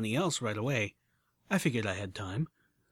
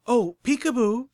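slow raised call after someone; higher, louder call; 10 semitones higher, 7 dB louder than usual. Acted. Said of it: "she called out after the unicorn".

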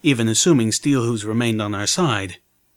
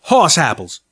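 defiant scoff; 4 semitones higher, 5 dB louder than usual. A narrator's reading.

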